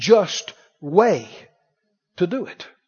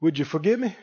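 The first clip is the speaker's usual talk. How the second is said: soft apology; 9 dB quieter than usual. Retold or imitated. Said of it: "you said".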